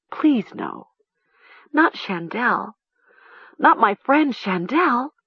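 slow, high-pitched dread; anguished pleading. A narrator's reading. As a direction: plead inwardly, rising in distress. Horrified thought on finding friend's body.

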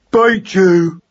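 put-on high, loud baby mouse battle cry. A narrator's reading. Baby mouse charges the cat's tail, crying out. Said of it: "he cried again".

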